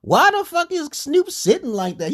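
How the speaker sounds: retold disbelief. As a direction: ask it like you can't believe your eyes. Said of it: "I said".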